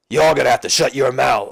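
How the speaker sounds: botched tough-guy wrestler voice; horrible Stone Cold. Acted. Austin on the mic to the crowd, badly imitated. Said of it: "that's a horrible Stone Cold".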